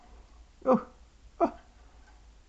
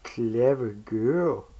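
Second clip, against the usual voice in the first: slow praising; 4 dB louder, much slower than usual. Real, not acted. Praising pet.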